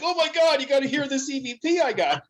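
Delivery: high-pitched gushing ghost hunter; hammed-up high, thrilled exclamation; mock excitement. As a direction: gush like you've made a big discovery.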